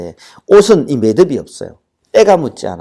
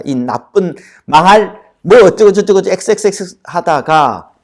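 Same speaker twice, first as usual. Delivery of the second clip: 분노한 저주; 4 semitones higher, 3 dB louder than usual. Acted. 버림받은 천인의 분노 폭발.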